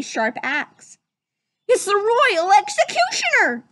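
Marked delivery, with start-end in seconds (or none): 1.7-3.6 high, loud panicked duck voice; Donald Duck gasp. Acted. Donald in the cell spots the executioner, squawking. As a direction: squawk in alarm. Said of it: "gasped Donald".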